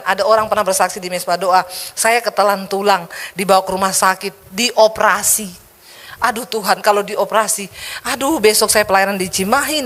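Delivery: usual speaking voice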